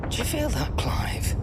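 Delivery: startled shopkeeper asking Clive about the tremor; alarmed question. Acted. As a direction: snap to attention at the tremor. Sudden tremor felt in shop.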